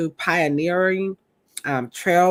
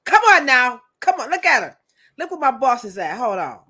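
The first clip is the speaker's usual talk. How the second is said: imitating her boss; 4 semitones higher, 4 dB louder, faster than usual. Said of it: "what she say?".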